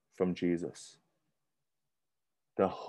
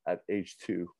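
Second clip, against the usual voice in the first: mock wistful murmur; 7 semitones lower, 8 dB quieter than usual. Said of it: "you're like".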